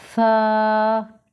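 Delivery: सा with a soft, light s. Shown as a demonstration. Teacher repeats the soft सा for pupils. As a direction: breathe सा out softly. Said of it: "इसको हम नरमी से अदा करेंगे".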